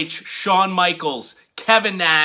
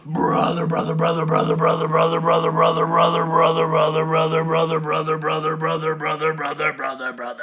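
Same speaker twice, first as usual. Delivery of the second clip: fading whispered echo; faster than usual. Acted. Host closing the tribute with a brother chant fading to whisper. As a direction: let the chant die out in a whisper.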